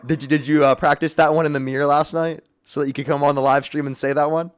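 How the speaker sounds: sarcastic put-on streamer voice; mock agreement in the show voice. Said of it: "I'm done with the voice".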